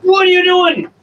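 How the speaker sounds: very high, teasing what-are-you-doing; high pet talk. Real, not acted.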